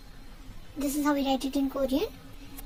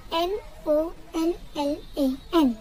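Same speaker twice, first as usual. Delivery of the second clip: letter-by-letter spelling with pauses; spelled out. Shown as a demonstration. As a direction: spell it out, each letter separate. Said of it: "how to pronounce it in Korean".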